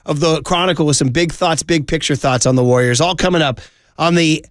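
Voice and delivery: upbeat host tease, rolling through the rundown; radio promo read. Acted. Radio host teasing the rest of the show, upbeat promo read. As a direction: sell what's coming up like a radio promo.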